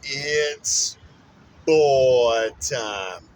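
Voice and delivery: put-on boy time, shouted out big and loud; proud loud announcer call; loud announcement. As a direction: belt the word boy and let it fall.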